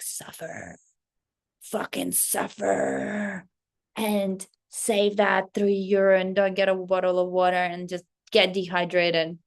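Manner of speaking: harsh inner critic. Retold or imitated. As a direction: drag out the word suffer like a grim taskmaster. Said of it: "the past me would be like".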